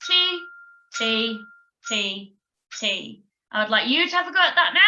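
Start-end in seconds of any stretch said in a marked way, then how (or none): 0.1-3.2 long held T syllables, fading; long drawn-out Ts, dying away; long sounds. Shown as a demonstration. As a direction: sustain each T and let it fade. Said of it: "It would sound like this".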